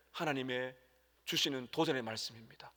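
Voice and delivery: soft unvoiced whisper. Real, not acted. Pastor whispering the close of a sermon line. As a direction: let it fade into a whisper.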